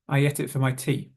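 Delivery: "ate" as "et", "it" and "for" weak; quick linked "ate it for my tea"; diminished vowels. Shown as a demonstration. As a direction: reduce "for" to a schwa "fuh". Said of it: "vowel sounds tends to be diminished".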